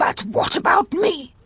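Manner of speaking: high, angry, insistent tone. Narrator reads a headmaster's angry interruption: angry demand. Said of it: "Demanded Headmaster Trample angrily".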